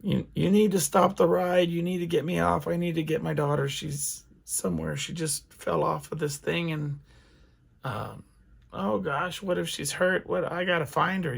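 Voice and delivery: retold panicked yelling. Mother trapped on a Ferris wheel begging to stop the ride, mock panic. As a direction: replay the frantic plea from the dream, pitch up but held back. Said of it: "and I'm yelling".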